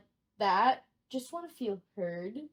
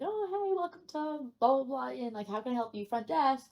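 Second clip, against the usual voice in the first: lightly voiced front desk greeting; receptionist greeting. New night clerk answering the phone, lightly perky.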